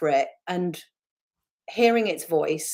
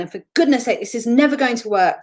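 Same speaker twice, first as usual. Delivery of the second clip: louder, higher fed-up explosion; exasperated outburst; 5 semitones higher, 5 dB louder, faster than usual. Retold or imitated. A woman exploding at her leadership team, loudly exasperated. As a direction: blow up at the team. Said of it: "she'd explode at the end".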